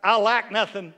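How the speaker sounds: booming declaration. Shown as a demonstration. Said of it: "Look at James and say".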